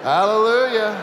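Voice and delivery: loud, high burst of relief; joyful Hallelujah. Acted. Man saved at the cliff edge, bursting out loud and high. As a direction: let the joy burst out. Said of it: "overwhelmed with joy".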